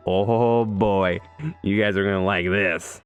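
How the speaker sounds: slow, drawn-out relish; hyped anticipation. Real, not acted. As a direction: draw it out in anticipation. Hyping up the final race.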